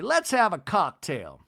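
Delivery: high, slow society matron; Miss Patricia. Retold or imitated. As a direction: imitate a grand hostess, drawn out and lilting. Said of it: "she tells Whitney".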